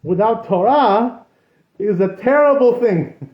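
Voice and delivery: solemn, drawn-out lament; the old rabbi's grave warning. Retold or imitated. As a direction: intone it like a weeping old sage's warning. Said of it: "He said".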